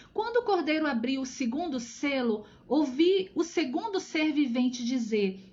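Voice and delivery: measured, emphatic Bible reading; scripture reading. Acted. Teacher reads Revelation to online study group, emphatic scripture reading. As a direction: declaim the verse with weight on key words.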